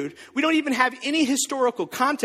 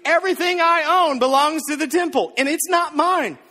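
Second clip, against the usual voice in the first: raised, louder mock proclamation; mock yell; 5 semitones higher, 4 dB louder than usual. Pastor acting out yelling in his backyard, hammed-up loud declaration. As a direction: announce it to the whole neighbourhood. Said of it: "I yelled in my backyard".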